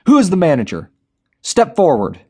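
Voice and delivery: high, loud commanding yell. A narrator's reading. Darren yelling at hostages for the manager, commanding shout. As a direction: bark the order at the crowd. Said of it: "Darren yelled".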